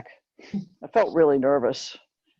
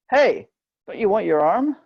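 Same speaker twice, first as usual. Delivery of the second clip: higher, raised taunting voice of a stranger; mocking passenger; 6 semitones higher than usual. A passenger inside the train taunts the girl at the window, higher and raised. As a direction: needle her about her arm.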